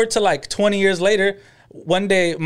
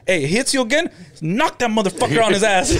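laughing retold advice. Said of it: "And I said".

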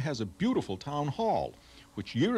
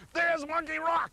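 very high, slightly raised mock-kid exclamation; excited kids. Kids spotting the rock from their parents' cars, mock excited. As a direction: imitate kids' high, excited cry. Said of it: "They get all excited".

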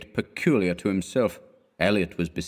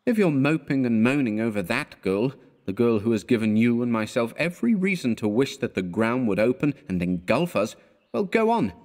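exasperated friend dismissing him; scornful; 2 semitones higher than usual. Acted. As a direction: sneer at his moping. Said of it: "with scorn".

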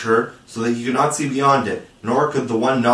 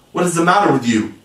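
higher, quick, alarmed question; suddenly afraid; 5 semitones higher, faster than usual. A narrator's reading. Peter to the reeling fairy, crying out suddenly afraid. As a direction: cry it out with a touch of fear. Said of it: "suddenly afraid".

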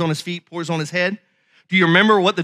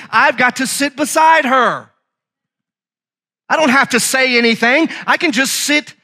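higher, insistent pulpit delivery; fervent preaching; 6 semitones higher than usual. Acted. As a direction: declare it with conviction to the congregation. Preacher declares love for wife.

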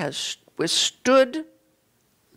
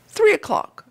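wolf; 10 semitones higher, 3 dB louder than usual. Acted. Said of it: "said the wolf".

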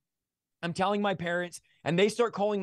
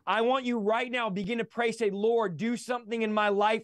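impassioned exhortation, pitch climbing as it builds; fervent preaching; 3 semitones higher than usual. Real, not acted. Guest urging listeners to believe for the impossible, fervent preaching. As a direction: urge listeners into bold prayer.

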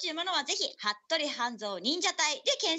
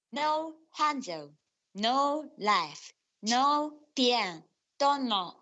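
slow name reading; much slower than usual. Acted. Reads out listener names slowly.

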